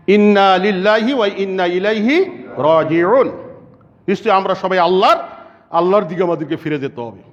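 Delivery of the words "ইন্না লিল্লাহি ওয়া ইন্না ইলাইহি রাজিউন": slow, measured recitation; recited invocation. Shown as a demonstration. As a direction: intone it slowly like a prayer. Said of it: "এই বাক্য উচ্চারণ করা". (ধীরে ধীরে তিলাওয়াতের সুরে)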